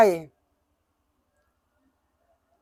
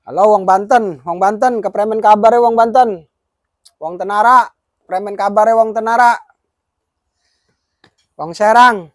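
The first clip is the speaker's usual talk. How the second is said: calling out a cheerful hello; loud greeting; 5 dB louder than usual. Real, not acted. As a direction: hail the crowd loudly. Greets listeners from Banten.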